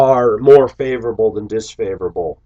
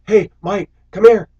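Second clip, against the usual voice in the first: mock high, loud summons; high-pitched holler, rising in volume; calling out; 11 semitones higher, 8 dB louder than usual. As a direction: imitate someone calling a coworker over. Retold coworker calling him over.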